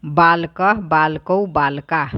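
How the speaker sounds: बालकः, बालकौ, बालका said one by one; teacher modelling the three number forms of a noun; pronunciation drill. Shown as a demonstration. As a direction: model each noun form separately. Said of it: "ख number का भी उच्चारण ही करना है।".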